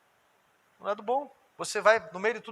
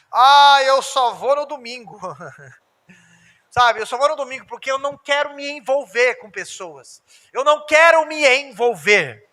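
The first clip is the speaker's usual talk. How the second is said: mock Sunday-only churchgoer; 3 semitones higher, 5 dB louder than usual. Pastor voices Sunday-only believer.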